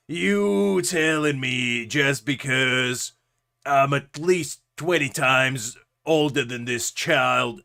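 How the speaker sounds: put-on cranky old man ranting about kids; grumpy grandpa griping about the old days.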